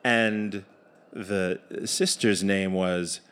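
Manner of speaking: measured once-upon-a-time delivery; fairy tale narration. A narrator's reading. Narrator sets up the tale for the audience, measured storytelling.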